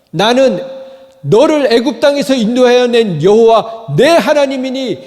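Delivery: loud, high divine promise; God's voice. Acted. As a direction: proclaim it like God calling out. Preacher voicing God's promise.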